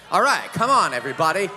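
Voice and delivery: loud scolding call to the crowd; playful rebuke to the room. Real, not acted. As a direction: chide the audience, come on.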